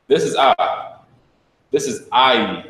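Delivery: ai given a firm hit on the vowel; emphasized ai. Shown as a demonstration. Teacher telling students to hit emphasis on ai. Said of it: "Hit emphasis".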